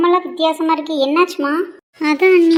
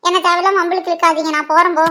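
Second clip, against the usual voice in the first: protesting innocence, slightly raised voice; defensive protest; 3 semitones higher than usual. Acted. Girl denying blame in a quarrel, defensive. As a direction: push the blame away.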